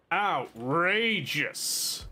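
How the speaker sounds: very slow, stretched mock outrage. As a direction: drag every syllable out in theatrical horror.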